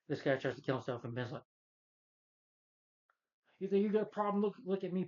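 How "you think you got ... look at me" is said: lightly voiced Ben. Ben voiced, higher louder.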